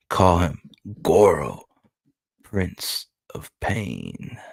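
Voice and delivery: measured, weighty narration with pauses; dramatic narration. Acted. Reading Goro's introduction to viewers, dramatic narration. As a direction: build suspense like a solemn introduction.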